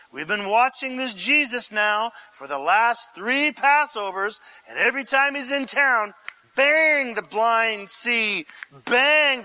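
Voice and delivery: hammed-up cheering with punched exclamations; excited crowd member. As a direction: play a fan cheering on a hero. Voices the cheering Palm Sunday crowd.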